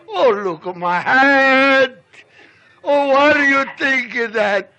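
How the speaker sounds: loud, stretched-out comic lament; mock dismay. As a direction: wail it in hammed-up indignation. Storyteller wails over squashed hat.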